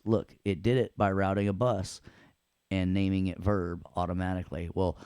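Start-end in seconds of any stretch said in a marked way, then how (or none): 4.7-5.0 slow, loud, proud showman crowing; smug showoff. Acted. Teacher showing off a trick to students, slow loud crowing. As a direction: crow over the trick like a showman.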